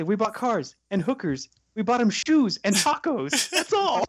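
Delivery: rising, earnest plea; mock earnest captive pleading. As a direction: beg sincerely like a captive. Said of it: "He's just so earnest".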